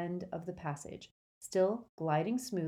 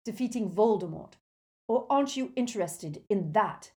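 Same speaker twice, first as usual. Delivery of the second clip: raised, heated, pressing voice; loud angry insistence, pitched up; shouting at her; 4 semitones higher, 5 dB louder than usual. A narrator's reading. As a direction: challenge her loudly. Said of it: "Harry shouted at her".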